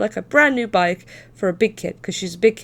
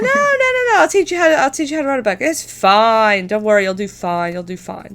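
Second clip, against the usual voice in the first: reassuring dad; 3 dB louder than usual. Retold or imitated. Dad reassuring scared kid.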